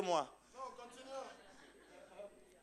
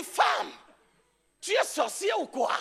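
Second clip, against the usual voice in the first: retold yelling doctor; 4 semitones higher than usual. Doctor shouting at the woman in disbelief, mock yell. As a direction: bark it like the stunned doctor. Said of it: "a commencé par crier".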